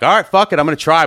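a mock burst of nerve before raising prices; mock fired-up outburst. DJ retelling raising his rates, mock fired-up outburst. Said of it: "I'm like".

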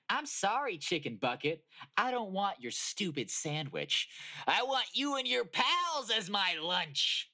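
yelled. Acted. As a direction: roar it as a hungry predator. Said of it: "she yelled".

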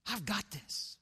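soft, dropped-volume repeat; hushed, confident aside; quiet assurance. Acted. Same assurance repeated, much softer.

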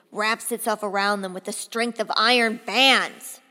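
a hint of a bombastic commander; General Scott. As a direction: relish every image, swelling to an emphatic finish. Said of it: "you're also going to hear General Scott".

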